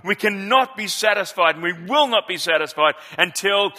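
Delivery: rising oratory in a measured cadence; a preacher reciting a great civil rights speech, building; preaching oratory. Acted. A pastor reciting the speech to his congregation, swelling oratory.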